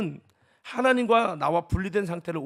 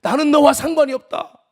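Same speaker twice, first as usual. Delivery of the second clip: God's voice; 6 semitones higher, 11 dB louder than usual. Retold or imitated. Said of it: "그러면서".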